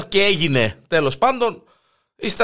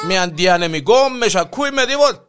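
laughing through it; 2 semitones higher, 3 dB louder than usual. Real, not acted.

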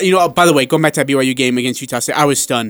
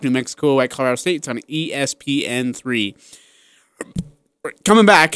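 hiccuping mid-sentence; talking through hiccups. Real, not acted. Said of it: "Sorry, I got hiccups".

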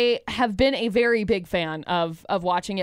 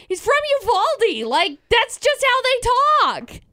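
Texan drawl; 11 semitones higher, slower than usual. Retold or imitated. Mimicking Texan friend's talk.

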